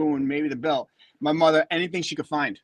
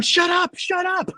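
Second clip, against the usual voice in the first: thinking shut up; slower than usual. Retold or imitated. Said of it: "in my mind, I'm going".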